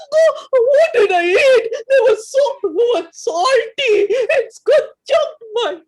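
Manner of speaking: panicked choking shout. Acted. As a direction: gasp it out like the salt is stuck in your throat. Choking on salty fries, acted.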